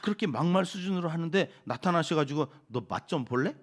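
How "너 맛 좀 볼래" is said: hammed-up threatening telling-off; acted-out, half-serious rebuke; mock scolding. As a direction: play at scolding an insolent child. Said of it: "뭐 이러면서 막 나무라시지를 않으세요".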